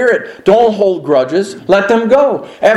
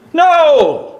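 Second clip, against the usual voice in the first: emphatic no; 11 semitones higher than usual. Real, not acted. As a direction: slam the answer down. Preacher answers his own question.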